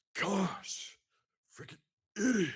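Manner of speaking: very high, loud squealed blurt in a character voice. Asked to perform one of the old impressions, doing the Napoleon Dynamite voice. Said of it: "Do we get to hear one of them?".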